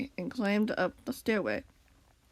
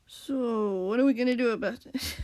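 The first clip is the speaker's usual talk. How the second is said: wrong character voice. Acted. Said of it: "Wrong voice".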